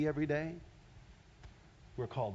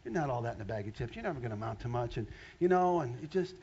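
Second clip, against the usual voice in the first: 1 taunting demon voice. Retold or imitated. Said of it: "it's just gonna sit with you".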